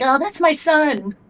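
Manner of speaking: high, slow, sing-song proud parent; mock proud parent. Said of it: "people like".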